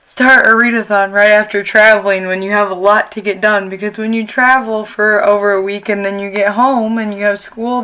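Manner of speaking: talking with a bottom retainer in; slightly slurred around a retainer; wearing a retainer. Real, not acted. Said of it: "At least took the top one out so you could understand me".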